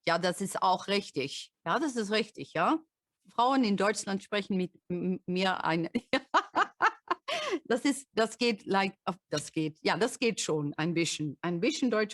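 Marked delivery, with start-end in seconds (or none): 0.0-5.9 native-sounding German, a different voice from her English; German speech. Shown as a demonstration. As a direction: switch into your German voice. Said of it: "when I speak German".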